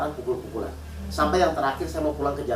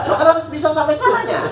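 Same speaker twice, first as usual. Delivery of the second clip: laughing; 12 semitones higher, 5 dB louder than usual. Real, not acted. Preacher laughs mid-sermon.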